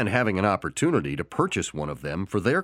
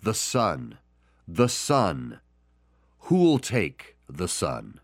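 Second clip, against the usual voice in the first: solemn message; much slower than usual. Shown as a demonstration. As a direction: offer the son to the listener. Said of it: "his message today is".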